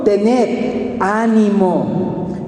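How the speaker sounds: slow, gentle words of comfort; slow and soothing, a hint of Jesus' voice; calm reassurance. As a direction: speak as Jesus calming frightened men. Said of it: "les habló diciendo".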